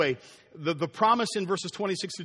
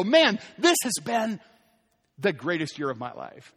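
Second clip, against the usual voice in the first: contented sigh. Retold or imitated. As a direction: savour the good year. Man content after a good year.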